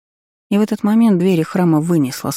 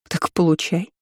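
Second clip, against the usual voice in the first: casual scoff. A narrator's reading. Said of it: "хмыкнула непринуждённо".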